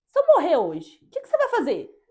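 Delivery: put-on teasing the boyfriend with a dramatic plea at bedtime; dramatic question. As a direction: ham up the worry of dying.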